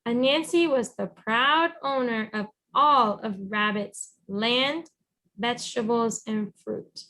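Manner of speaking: put-on even storybook narration read to a child; reading to children. Teacher reading a picture book to her students, storybook voice. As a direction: tell the story gently to a young listener.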